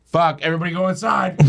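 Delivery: quick, urgent mock shout; retold alarm. Teller sees a gun at Dave's head, urgent retold warning. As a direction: hurry everyone in, half-shouted.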